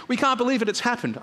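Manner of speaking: high-pitched, acted disbelief and joy; amazed excitement. Servants reporting the healing to the father, amazed. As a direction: marvel at it, pitch jumping up.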